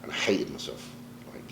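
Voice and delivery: a real whispered admission, choked up; emotional whisper. Real, not acted. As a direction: let it drop to a whisper as emotion rises. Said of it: "I'll probably get emotional now".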